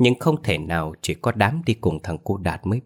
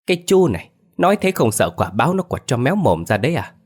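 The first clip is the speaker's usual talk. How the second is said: scolding; 6 semitones higher than usual. Acted. Villager scolds a sceptic.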